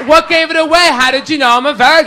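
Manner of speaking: mock amazement, quick and high; amazed girl. Girl stunned he guessed her sign, imitated high and amazed. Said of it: "She's like".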